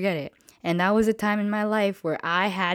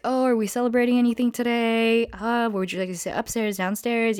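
lightly put-on hostess greeting, a bit higher; polite customer-service lilt; 4 semitones higher than usual. Hostess to arriving steakhouse guests, lightly put-on politeness. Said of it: "when you're in the front".

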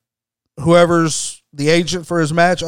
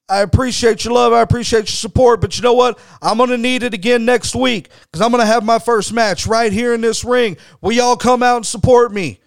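lightly voiced, higher, eager plea to the fans; a hint of a wrestler rallying the crowd, pitched up; Tony pumping up the crowd; 6 semitones higher than usual. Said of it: "So Tony tells everybody".

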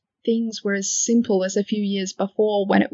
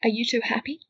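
whispering; 2 semitones higher than usual. Acted. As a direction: breathe the question gently. Tender question.

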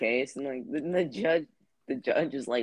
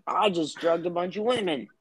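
Bill Cosby impression; 3 semitones higher than usual. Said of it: "That's my impression".

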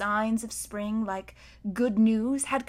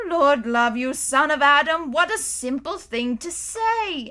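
laughing; 5 semitones higher, 6 dB louder than usual. Acted. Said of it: "with a great laugh".

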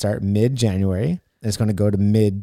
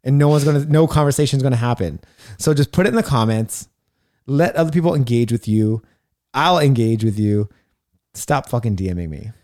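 louder, higher, insistent rant about DMs; serious rant; 4 semitones higher, 4 dB louder than usual. Real, not acted. Coach scolds followers about DMs, in a loud, raised rant. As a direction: lay down the law, half laughing, half serious. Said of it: "I'm serious".

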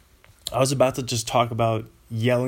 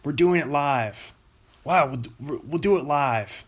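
Bill O'Reilly. Retold or imitated. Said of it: "Bill O'Reilly".

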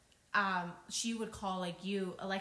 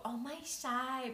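put-on Thai accent; 5 semitones higher, slower than usual. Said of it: "Thai people drag".

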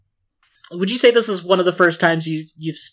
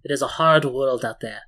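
smiling voice; 4 dB quieter than usual. Acted. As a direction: speak with a proud smile. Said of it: "you can hear the smile in her voice".

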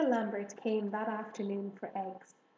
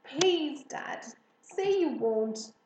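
louder, slow, drawn-out begging; tearful plea; 5 semitones higher, 8 dB louder, much slower than usual. A narrator's reading. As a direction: plead with Dad, mildly tearful. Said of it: "close to tears".

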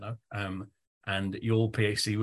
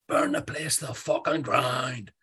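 slow, loud Belfast shout from the back of the room; a heavy Belfast accent roared out slowly; strong Belfast accent; 5 semitones higher, 5 dB louder, slower than usual. Retold or imitated. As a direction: bellow it in a thick Belfast accent. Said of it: "he said it in a strong Belfast accent like that".

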